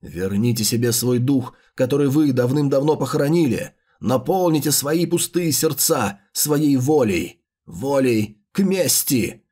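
slow villainous incantation; slow theatrical villain menace. Acted. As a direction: preach vengeance slowly, with menace. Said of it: "ведёшь себя как злодей".

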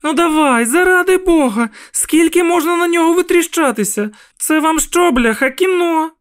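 high, loud furious yell at cars; a mother yelling at gawkers to move; shouting mother. A narrator's reading. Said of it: "кричала вона".

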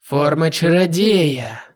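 slow cold demon lord; hissed, slow villain. Acted. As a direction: drag out the words menacingly. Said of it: "прошипел".

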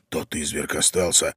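put-on low, hushed young man; whisper. A narrator's reading. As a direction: murmur it low and secretively. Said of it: "прошептал молодой человек". (низкий шёпот)

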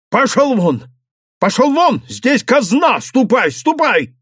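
громко и выше, гневно; выгнать вон; гонит прочь. A narrator's reading. Совхоз выгоняет мужика. (совхоз выгоняет мужика)

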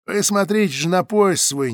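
a hint of a loud, coarse guard; a slightly voiced guard lecturing a passenger; lightly voiced guard. A narrator's reading. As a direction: lecture her with crude friendliness. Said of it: "почти доброжелательно прибавила Фуражка".

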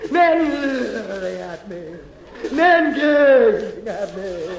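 milk every word like a stage star; Tallulah Bankhead. Acted. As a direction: Bankhead grande dame melodrama. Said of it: "Great actresses like Tallulah Bankhead".

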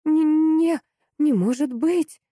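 high, loud disbelieving cry; shocked gasp. A narrator's reading. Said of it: "выдохнула экономка".

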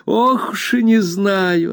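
high, slow sigh of doubt; an old nurse hedging, pitched high; doubtful Peggotty. A narrator's reading. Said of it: "отозвалась Пегати".

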